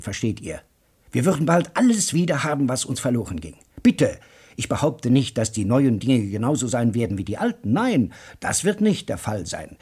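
a keen talker carrying two stunned men along; hammed-up enthusiast; excited lecturer. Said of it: "Joe Welling redete hastig weiter".

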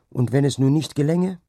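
besorgt eingewandt, mit gehobener Stimme; Ausruf. A narrator's reading. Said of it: "rief sie wieder". (gerufen, mit hoher Stimme)

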